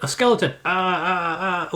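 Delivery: high-pitched panicky gamer yelps; mock alarm. Gamer acting out a skeleton fight in Oblivion, mock panic. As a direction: play up the fright at spotting a monster. Acts out player meeting a monster.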